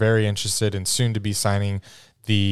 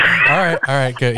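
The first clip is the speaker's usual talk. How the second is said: mock eager; 4 semitones higher, 5 dB louder than usual. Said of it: "He's like".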